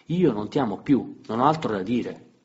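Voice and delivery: loud and high, voices rising; heated quarrel. Acted. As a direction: fight it out, both escalating. Lite accesa tra marito e moglie. (lite accesa, voce alta e forte)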